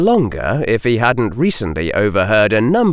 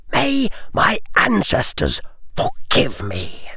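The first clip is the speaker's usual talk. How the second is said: mock contrition; 12 semitones higher than usual. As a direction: fake humble prayer. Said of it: "Lucius Malfoy bowed his head".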